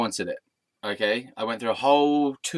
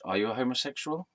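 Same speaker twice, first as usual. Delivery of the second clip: softer, discreet aside; quietly, under breath; 6 dB quieter, faster than usual. Retold or imitated. Asking the bartender as much, quietly under the breath. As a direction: ask it under your breath. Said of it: "quietly, under my breath".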